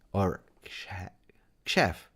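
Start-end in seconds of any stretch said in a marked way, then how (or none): 1.6-2.1 Xhef started with a crisp ksh. Shown as a demonstration. Streamer tries out the name, ksh at the start of Xhef. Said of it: "It's not Jeff".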